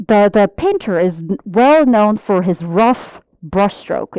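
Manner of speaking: example read out slowly and clearly. Shown as a demonstration. Teacher reading an example sentence slowly. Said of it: "예문".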